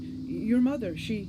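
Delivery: high, loud and hurried; urgent. Acted. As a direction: blurt it out, rattled. Breathless maid brings urgent news.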